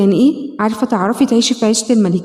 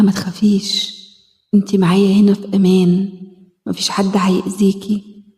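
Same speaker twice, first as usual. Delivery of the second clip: tender reassurance; 3 semitones lower than usual. Acted. Comforting the inner child.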